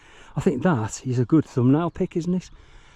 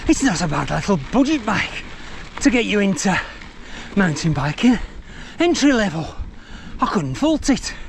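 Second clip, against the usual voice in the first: a gentle Yorkshire bike reviewer, slightly higher; Yorkshire impression; 3 semitones higher than usual. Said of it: "He talks a little bit like this".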